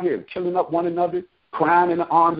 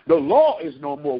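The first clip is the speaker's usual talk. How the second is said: law is no more called out louder; 6 semitones higher than usual. Shown as a demonstration. Preacher repeating the line higher for the congregation. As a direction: raise it, rising at the end.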